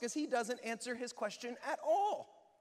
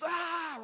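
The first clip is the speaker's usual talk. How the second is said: exasperated groan; 8 semitones higher than usual. Retold or imitated. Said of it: "we just wanna scream".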